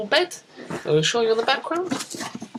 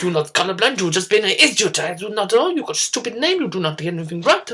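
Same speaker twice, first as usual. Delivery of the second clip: mock telling-off; 5 dB louder than usual. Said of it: "She goes".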